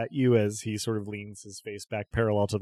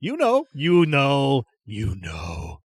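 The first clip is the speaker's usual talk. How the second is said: eccentric merchant voice; 2 semitones higher, 4 dB louder, slower than usual. Acted. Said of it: "and he says".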